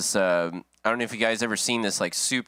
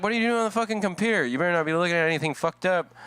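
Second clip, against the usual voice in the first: mom interrogating; 5 semitones higher, faster than usual. Retold or imitated.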